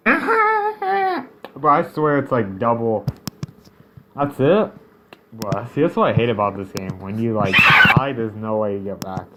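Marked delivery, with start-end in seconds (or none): 0.1-1.7 laughing. Real, not acted. Still laughing after scare. 7.6-8.1 shrieked yell. Real, not acted. Yelling while dying in game.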